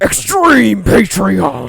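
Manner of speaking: monster truck ad. Pretend. Slow rally announcer.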